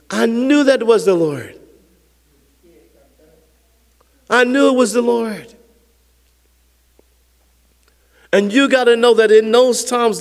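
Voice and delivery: emphatic sermon delivery; impassioned preaching. Real, not acted. Preacher assuring congregation the Lord speaks, impassioned. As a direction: declare it with conviction to the congregation.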